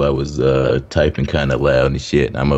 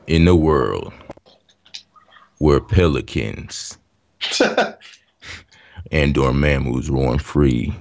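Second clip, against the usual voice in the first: movie trailer voice; 2 semitones lower than usual. Pretend. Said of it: "can you do a movie trailer voice".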